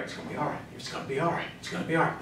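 soft, low soothing murmur; hushed mock reassurance, well under the voice; positive thinker. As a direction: play someone quietly reassuring themselves. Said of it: "Those are the positive thinkers".

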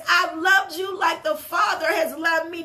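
"I've loved you like the Father has loved me" thrown out loud and fervent; preached loud. Shown as a demonstration. Preacher restating the verse to the church, now loud and fervent. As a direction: proclaim "loved" with full force. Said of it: "He says".

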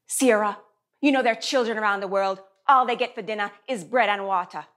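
mother's Jamaican accent, lightly put on; unpolished Jamaican accent; attempted Jamaican accent. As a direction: imitate a Jamaican mom lecturing her child. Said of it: "still working on the accent".

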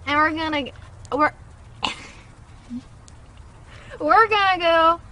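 put-on country storytelling; country accent. Friend describes tonight's dinner in a playful country accent. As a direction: spin out a plan in a pretend country accent. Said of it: "I'm also gonna do a country accent".

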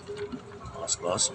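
slow, hushed, relieved; breathless relief. Real, not acted. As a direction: let the breath out slowly.

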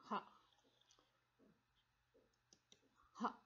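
ha with a voiceless puff of air; breathy h sound. Shown as a demonstration. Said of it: "This is unvoiced".

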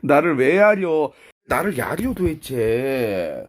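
loud, drawn-out mock challenge; mock indignation. Streamer confronting a glaring pet, loud mock indignation. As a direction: confront the pet loudly, stretching the words.

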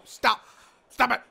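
panicked plea. Real, not acted. Begging the game to stop.

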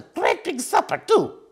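slightly high disapproving hamster; a touch of reproach; mild tutting hamster. A narrator's reading. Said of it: "tutted Hugo".

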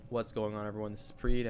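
usual speaking voice

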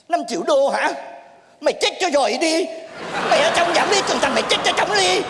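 rising, indignant phone outburst; comic indignation climbing in pitch; outraged disbelief. Acted. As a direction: blow up at an absurd price. Outraged at price asked on phone.

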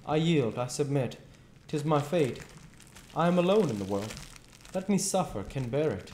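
high, melodramatic noble lament; self-pitying Duke. Acted. Duke giving up the bed, hammed-up self-pity. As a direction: wail your misfortune like a tragic actor. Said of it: "when the Duke says".

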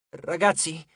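small, wavering call to friends; feebly, as if badly shaken; understated frightened voice; faint, cracked voice. A narrator's reading. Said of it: "La voce di Piper era fievole e incrinata".

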